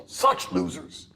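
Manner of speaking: slow scornful whisper. Real, not acted. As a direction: breathe out contempt slowly.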